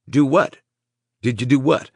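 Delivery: high, rising, pressing question; puzzled asking. Acted.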